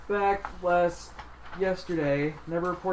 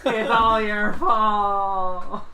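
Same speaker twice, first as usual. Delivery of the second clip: laughing; 4 semitones higher, 8 dB louder, much slower than usual. Pretend. Mock blaming, laughing.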